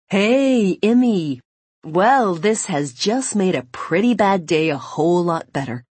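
happy to hear her, calling out; cheerful boyfriend voice. Acted. Owen greets her on phone.

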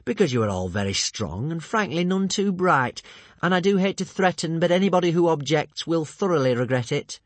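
high, loud, sing-song threat; polite villain turning threatening; menacing villain. Acted. Alvin's menacing speech.

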